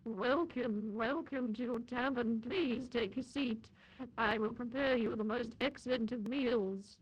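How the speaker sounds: tavern keeper. Pretend. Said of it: "imagine if you're role-playing".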